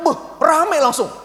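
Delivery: mock excited buh; burst of noise. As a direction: stretch it out like a crowd erupting. Sanguine arrival acted out.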